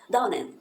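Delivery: Down and with the D barely heard, N carried over; teacher showing the silent D; swallowed D. Shown as a demonstration. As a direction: let the D not come out. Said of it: "o D e ele não saísse".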